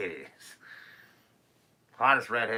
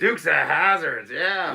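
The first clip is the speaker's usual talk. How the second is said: excited; 7 semitones higher, 12 dB louder, slower than usual. Real, not acted. Calling out show name.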